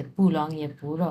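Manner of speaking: slow, careful Chinese model sentence; slow model answer. Shown as a demonstration. Teacher slowly modelling the Chinese reply. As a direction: spell out each syllable slowly. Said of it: "এইভাবে দেওয়া হবে যে".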